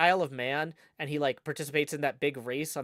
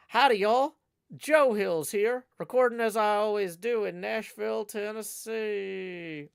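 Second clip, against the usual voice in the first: puppet voice; 3 semitones higher than usual. Acted. Puppet voice greeting chat.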